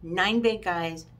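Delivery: slow, deliberate count. Shown as a demonstration. Summing up the lineup slowly after failing to say it fast. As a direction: give up on speed and spell it out slowly. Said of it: "I can't even say it that fast".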